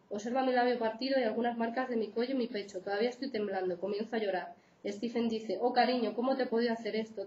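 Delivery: steady read-aloud of a true account; reading a case aloud. Acted. Lecturer reads a real abuse case to students, read-aloud. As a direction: read the book passage to the class, evenly.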